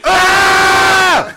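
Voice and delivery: piercing high scream; loud scream. Real, not acted. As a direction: let out a full scream. Scream test on the mic.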